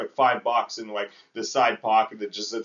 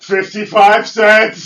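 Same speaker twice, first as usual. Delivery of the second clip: slow, high, loud disbelief at the price; stunned mock repeat of a price; incredulous quote; 8 semitones higher, 12 dB louder, slower than usual. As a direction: drag out the price like you can't believe it. Retelling the price demand.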